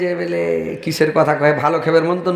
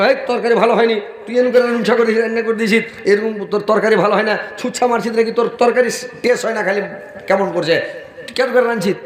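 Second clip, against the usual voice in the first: higher, nagging complaint at the wife's cooking; mock scolding husband; 5 semitones higher than usual. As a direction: play a husband running down the curry.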